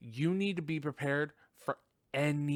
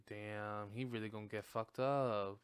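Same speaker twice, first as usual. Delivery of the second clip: inner aside; 5 semitones lower, 8 dB quieter than usual. Retold or imitated. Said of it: "I was like".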